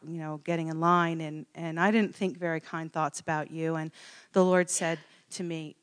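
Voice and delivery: low, soft, sincere confession; gentle retold apology. Woman kneeling to apologize to girl, soft and sincere. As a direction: apologize quietly, re-enacting it.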